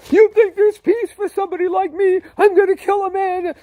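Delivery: high, loud wailing cry; anguished outburst. Retold or imitated. Driver rejecting offered peace from the Bible, anguished shouting. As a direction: cry out in disbelief and despair.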